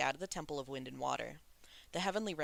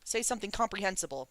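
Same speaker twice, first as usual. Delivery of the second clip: demanding; 4 semitones higher, 8 dB louder than usual. A narrator's reading. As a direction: bark it at him, fed up. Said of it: "Ming Yi demanded".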